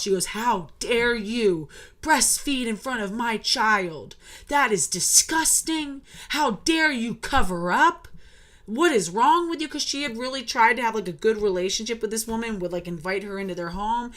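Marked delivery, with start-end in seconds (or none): 0.3-9.7 slow, indignant mock scolding of the ex-wife; a mild imitation of an outraged ex-wife; mock outrage. Ex-wife scolding the new mother for breastfeeding, mildly mocking outrage. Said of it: "And she flipped out".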